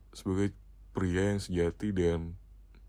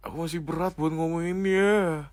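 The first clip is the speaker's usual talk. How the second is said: repeated clearer; 6 semitones higher than usual. Real, not acted. Repeating for a partner who missed it, higher and clearer. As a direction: say it again so the partner hears. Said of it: "Eh, gimana?".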